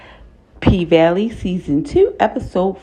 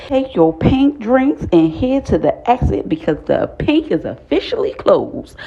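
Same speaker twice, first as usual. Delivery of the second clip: official announcement; 5 semitones higher than usual. Retold or imitated. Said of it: "She said".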